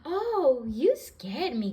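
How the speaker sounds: high pretend startle; mock fright. Granny pretending a ghost scared her. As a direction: play scared for the kids.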